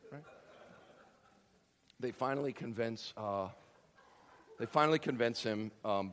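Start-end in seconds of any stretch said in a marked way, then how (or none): none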